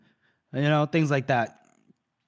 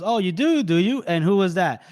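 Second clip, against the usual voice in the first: lightly acted sceptical general, pitched up; mock intrigue; 3 semitones higher than usual. General questions the guard's claim, mock intrigue. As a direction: toy with the claim, higher at the start.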